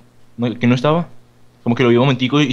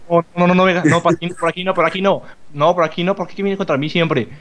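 panicked pleading; 6 semitones higher than usual. Real, not acted. Monster coming at him.

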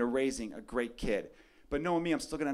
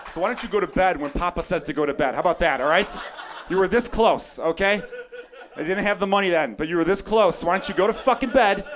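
louder, rising exasperated dad rant; hammed-up fed-up father; mock angry dad; 4 dB louder than usual. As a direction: scold the kid at bedtime, laughing. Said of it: "And I'm gonna be like".

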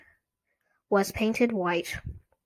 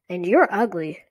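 squeaky dummy voice; 5 dB louder than usual. Acted. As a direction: snap it like a bratty dummy. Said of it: "she made him say".

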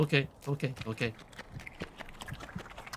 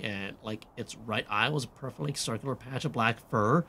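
put-on valley girl slipping southern. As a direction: read it as a pretentious teen, drifting Southern. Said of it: "this does not sound like a valley girl".

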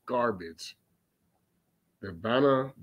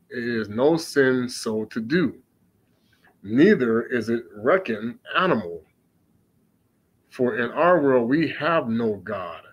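scripture reading. Acted. Preacher reading the tempter's words to listeners, solemn. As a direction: read it out solemnly, unhurried. Reads scripture text aloud.

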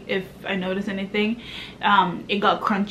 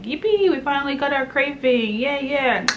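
mock excited baby; 5 semitones higher than usual. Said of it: "baby boy was dancing".

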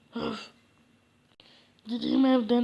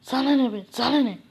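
louder, irritated retort; snapping back; 5 dB louder, faster than usual. Acted. Fakir snaps at the villager asking why he cries, louder and irritated. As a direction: brush the nosy villager off, annoyed.

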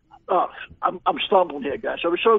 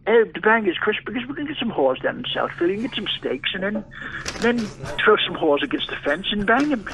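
mock English accent, loosely held; badly faked English accent; 3 dB quieter than usual. Guest keeps up the bit with Chris, mock English accent. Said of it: "do your English accent".

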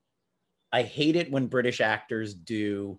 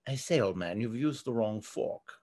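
lower, softer mock upper-class English accent; understated upper-class English accent; posh British; 3 semitones lower, 6 dB quieter than usual. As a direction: parody a stiff Downton aristocrat with an upper-class English accent. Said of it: "Downton Abbey".

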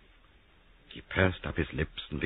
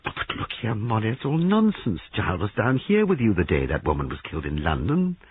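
raised pitch, urgent objection; agitated protest; 5 semitones higher, 3 dB louder than usual. Acted. Christopher arguing with Molly over Giles, agitated. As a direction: protest in a higher character voice.

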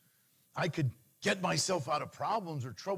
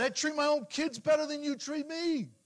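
mock angry; 11 semitones higher, 3 dB louder than usual. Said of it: "I got mad at God".

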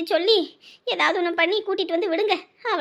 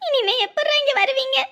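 higher, mildly weepy lament; tearful; 4 semitones higher than usual. Acted. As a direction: plead as tears start to come. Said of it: "எதுக்கு இப்ப அழுதுட்டு இருக்கீங்க".

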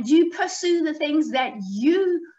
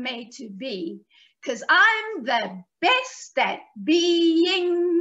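slow, rhythmic recitation with drawn-out key words; children's rhyme; slower than usual. Shown as a demonstration. Teaching children a rhyme about being yourself, slow sing-song recital. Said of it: "I'm gonna teach you the rhyme".

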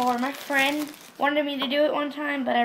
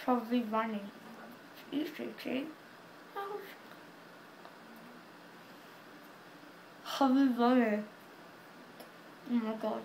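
cheeks stuffed full. Real, not acted. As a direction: mouth packed with marshmallows. Stuffing more marshmallows in.

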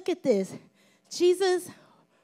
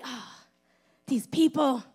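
acted-out sigh, breath first and then voice; exasperated sigh; 2 semitones lower than usual. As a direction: sigh as if fed up with people. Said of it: "what that sigh was for".

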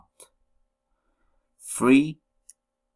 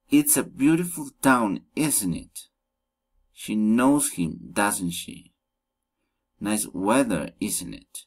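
"It's a beautiful town" falls before the short tag "isn't it"; tag question intonation. Shown as a demonstration. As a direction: drop the statement, then add "isn't it" as a tag. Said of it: "falling, rising intonation".

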